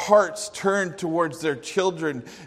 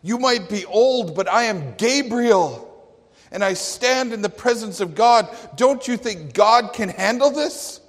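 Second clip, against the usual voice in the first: higher, louder, insistent angel; proud archangel voice, higher and louder; emphatic Gabriel; 5 semitones higher, 4 dB louder than usual. Acted. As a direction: make Gabriel pull rank on the old man. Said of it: "It's as if Gabriel was saying".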